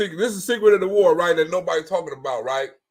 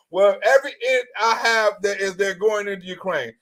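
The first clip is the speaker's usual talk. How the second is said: mock cautious official. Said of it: "You hear the difference?".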